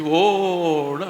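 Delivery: long drawn-out mock wail; imitated wailing. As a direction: imitate her bawling on one stretched "oh". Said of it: "அழுது".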